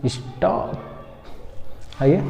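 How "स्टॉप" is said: स्टॉप with an open aw, softly; correct English vowel. Shown as a demonstration. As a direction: model स्टॉप between 'staap' and 'stope'. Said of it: "उसी तरह बोलना है". (स्टॉप में खुला ऑ बोलें)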